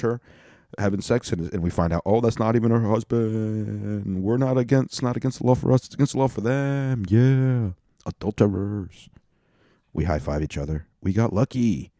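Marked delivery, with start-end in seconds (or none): 2.0-9.1 mock gleeful discovery. Acted gleeful discovery by the watchers. 11.0-11.9 higher-pitched little cheer; mock celebration. Acted high-five cheer, then repeated.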